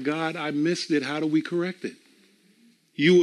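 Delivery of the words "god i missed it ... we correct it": hushed confession to God; softer prayer. Retold or imitated. Believer quietly confessing a mistake to God, hushed. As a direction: say it softly, like a humble prayer. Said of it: "you didn't say to God".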